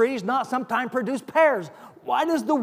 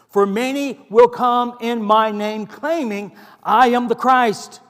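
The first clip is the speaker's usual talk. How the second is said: raised, urgent voice of Jesus warning; voicing Jesus' warning; 2 semitones higher than usual. Preacher to congregation, voicing Jesus with raised urgent warning. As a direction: call it out like a prophet's warning.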